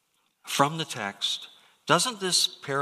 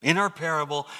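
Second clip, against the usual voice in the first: ordinary talk, nothing marked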